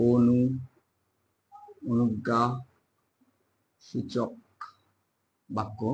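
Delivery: অনুজ্ঞাসূচক stretched out very slowly, syllable by syllable; slow dictation. Shown as a demonstration. Teacher dictating অনুজ্ঞাসূচক to students, very slow. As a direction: draw out অনুজ্ঞাসূচক for note-taking.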